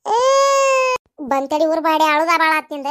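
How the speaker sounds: put-on shouting over a crying child; fed-up mother yelling; angry scolding.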